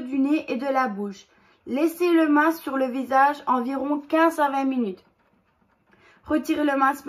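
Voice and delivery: steady, careful label-reading voice; reading instructions aloud. Acted. Reading the mask instructions to viewers, steady read-out voice. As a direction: read the directions off the box, evenly.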